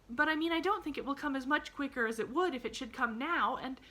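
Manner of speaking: put-on high child voice, tumbling explanation; glad little girl, shocked and earnest. A narrator's reading. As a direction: protest earnestly in a girlish pitch.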